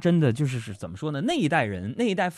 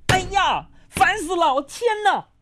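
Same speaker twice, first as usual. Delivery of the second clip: much higher, exasperated wifely whine; annoyed wife. Retold or imitated. Host imitating his moody wife sighing in annoyance. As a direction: play the fed-up wife huffing at nothing.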